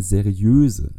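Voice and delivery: seriöse drawn out with rising pitch; stress on seriöse. Real, not acted. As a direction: lean slowly on the word seriöse. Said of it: "ich betone mal seriöse".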